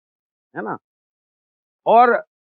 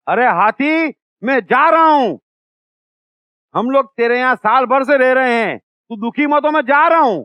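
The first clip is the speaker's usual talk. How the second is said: raised calling shout at the elephant; mosquito shouting; 3 semitones higher than usual. Retold or imitated. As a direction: yell it up into the ear. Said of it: "खूब जोर से चिल्लाया". (ज़ोर से चिल्लाता मच्छर)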